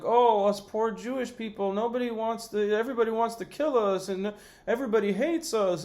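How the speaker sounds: sarcastic woe-is-us whine; mock self-pity. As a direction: play the tiny violin, whining. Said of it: "sitting there playing this violin".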